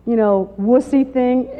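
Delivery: scornful slow jab at wussy; mocking wussy. Speaker mocking what people think meekness means, scornful. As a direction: drawl out wussy with contempt.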